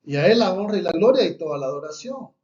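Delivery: fast, loud glory to God; fervent praise. Real, not acted. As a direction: proclaim it with rising fervour. Preacher exalting God aloud.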